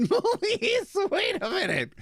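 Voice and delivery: slow, laughing through the words; slow amused read with a laugh in the middle. Real, not acted. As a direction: read it out while cracking up. Laughing at absurd reply.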